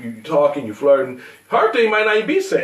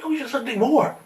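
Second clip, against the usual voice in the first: laughing retort; 10 semitones higher than usual. Real, not acted.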